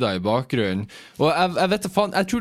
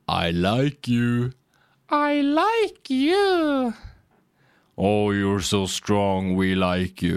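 creepy speaker voice; 3 semitones lower, much slower than usual. Retold or imitated. Imitating the loudspeaker cooing at his sister. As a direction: drawl it like a haunted toilet speaker. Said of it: "ropt gjennom høyttaleranleggen".

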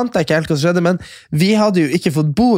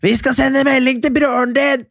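mock drunk woman; 9 semitones higher than usual. Drunk friend quoted.

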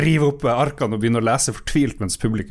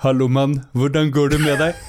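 half-hearted impression, rising at the end; Abid Raja; 3 semitones higher, 3 dB louder than usual. Colleague jokingly tries the impression, barely trying. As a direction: jokingly imitate a politician's greeting. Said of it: "hvis du skal være Abid Raja".

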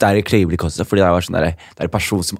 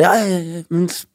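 put-on eager kid; 9 semitones higher than usual. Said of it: "så jeg bare".

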